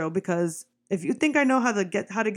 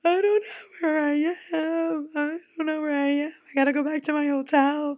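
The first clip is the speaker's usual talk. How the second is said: acted-out crying, high-pitched tearful panic; 7 semitones higher than usual. Retelling hopping into the back of a cab, re-enacting crying in panic. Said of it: "and I'm crying".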